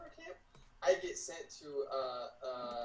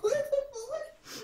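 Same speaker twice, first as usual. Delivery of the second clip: mock disbelief; 5 dB louder, much slower than usual. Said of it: "I'm like".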